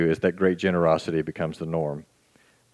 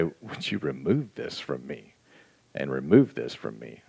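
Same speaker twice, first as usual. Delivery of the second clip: pleading prayer; 6 semitones lower, 7 dB quieter than usual. Retold or imitated. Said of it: "and say".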